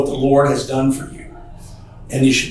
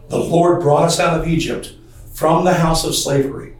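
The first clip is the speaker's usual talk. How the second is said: scripture reading; 2 semitones higher than usual. Acted. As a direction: read the verses with weight. Reads scripture aloud in sermon.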